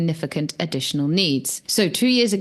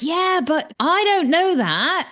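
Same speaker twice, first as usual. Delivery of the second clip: retorting; 9 semitones higher, slower than usual. Retold or imitated. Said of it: "I'm like".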